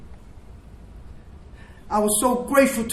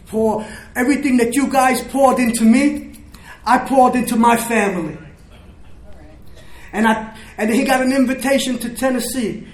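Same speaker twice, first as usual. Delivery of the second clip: louder, fervent testimony; swelling with emotion; 2 semitones higher, 4 dB louder than usual. Real, not acted. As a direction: let the gratitude swell up loud. Testimony builds to emotional peak.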